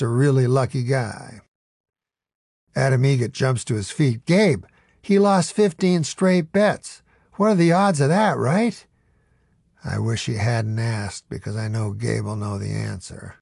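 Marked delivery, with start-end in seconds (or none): 4.3-8.9 higher, eager questioning; lightly voiced nervous hope; excited sidekick. A narrator's reading. Adam Eget excited.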